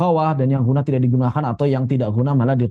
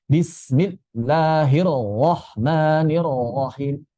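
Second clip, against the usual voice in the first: Bismillahirrahmanirrahim chanted slowly, ra not bouncing; slow Quran recitation; much slower than usual. Shown as a demonstration. Teacher demonstrating the basmalah to students. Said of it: "ro tidak memantul ya".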